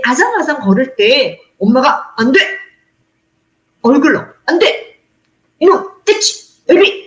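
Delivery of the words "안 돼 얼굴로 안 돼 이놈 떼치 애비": put-on sharp, high mother's warning to a toddler; a mother shouting no at her toddler; scolding mother. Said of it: "뭐 이렇게 얘기를 하잖아요".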